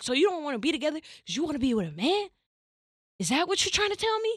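high, fast, incredulous demand; incredulous questioning. Retold or imitated. Girlfriend confronting boyfriend about wanting a man, high and incredulous. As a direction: push him for answers, pitch high.

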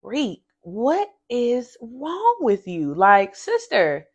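imitating sister asking what's wrong; sister's voice. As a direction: sister pressing for an answer. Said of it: "she's just like".

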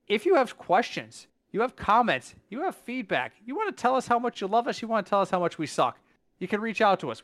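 ad read. Acted. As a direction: sell the review request brightly. Podcast outro plug for reviews.

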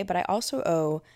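real voice crack on OWE. Real, not acted. Speaker crediting what built her confidence, voice cracking. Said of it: "was that a voice crack?".

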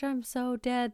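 put-on amused teen daughter. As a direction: play the daughter cracking up.

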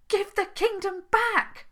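high, loud and commanding; demanding shout. Acted. Princess shouting down at the Troll King, demanding. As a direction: call down the demand, no arguing.

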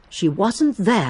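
"She wasn't there" ending on a weighted falling "there"; slow, land on "there"; stress on there, slow. Shown as a demonstration. Miss Marple gives the third reading, slow fall on there. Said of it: "Or you could say".

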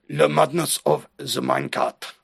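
hammed-up French accent. Co-host shows off his French accent on a game title, mock French. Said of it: "That's my French accent".

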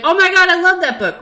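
high, fast fan gush; excited book lover. Pretend. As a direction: squeal it like a thrilled reader. Listener imagined gushing about book.

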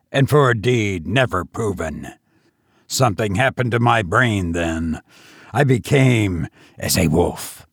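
lightly voiced, menacing madman gloating; mad tavern host.

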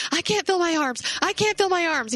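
high, loud panicked wail; retold panic.

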